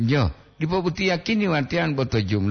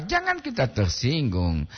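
normal talking voice

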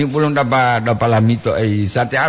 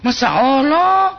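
surprised exclamation; 13 semitones higher, slower than usual. Real, not acted. Host exclaims at listener's name.

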